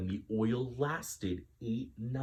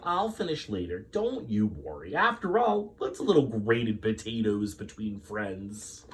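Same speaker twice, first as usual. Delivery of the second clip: reassuring. Acted. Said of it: "Missus Greenberg said".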